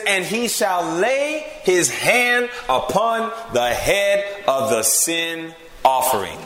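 very slow, drawn-out verse; measured, emphatic pulpit reading; deliberate scripture reading. Acted. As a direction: read it out word by word, stretching each. Reads Bible verse aloud.

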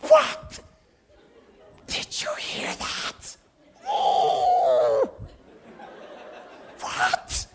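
hammed-up, high-pitched gasps of disbelief; astonished reaction. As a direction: act utterly floored by startling news. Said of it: "My friends and I would be like".

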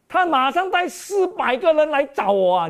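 alarmed Jacob. Acted. Preacher voices Jacob hearing news.

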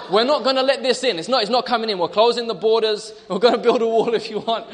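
playfully defiant, with laughter breaking in; President Trump. Acted. President vowing to close the borders, mock defiant. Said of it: "he's very defiant".

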